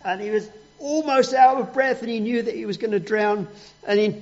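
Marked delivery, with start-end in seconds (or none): none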